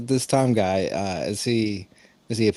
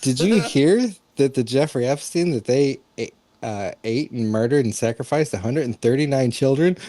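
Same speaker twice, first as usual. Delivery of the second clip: silly clown; 4 semitones higher, 3 dB louder than usual. Pretend. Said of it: "dressed as a clown and you're like".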